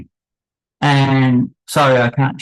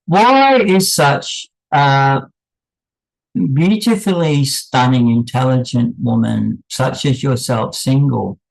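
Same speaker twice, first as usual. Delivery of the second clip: sarcastic flattery. Retold or imitated. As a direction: gush with mock admiration, stretching the first words. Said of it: "that was sarcasm".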